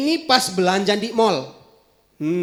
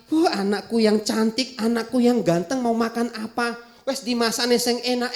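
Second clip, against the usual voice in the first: tender mother; 5 dB quieter than usual. Acted. Mother sweetly wakes child.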